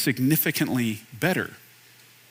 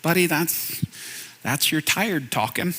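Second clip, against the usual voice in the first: gentle correction; 4 dB quieter, slower than usual. Retold or imitated. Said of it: "And God says".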